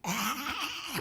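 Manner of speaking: a sharp mock monster roar; monster cry. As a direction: let out a short, menacing cry. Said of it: "막 이러는 거예요".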